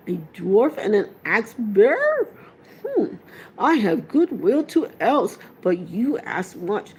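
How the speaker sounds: put-on old Ent humming and musing aloud; Treebeard. A narrator's reading. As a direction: voice the ancient tree-giant, grumbling. Treebeard doubts the dwarf.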